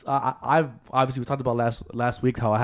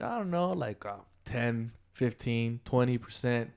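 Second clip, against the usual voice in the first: retold hesitant guess; 5 dB quieter than usual. Employee guessing sales rise for the boss, retold hesitant guess. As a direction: guess tentatively, trailing through the options.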